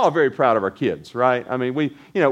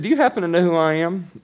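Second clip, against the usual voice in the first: indignant; 3 semitones higher, faster than usual. Retold or imitated. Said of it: "she said kinda indignantly".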